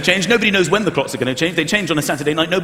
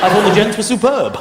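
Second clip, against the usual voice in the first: posh rugby player. Retold or imitated. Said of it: "they're so posh".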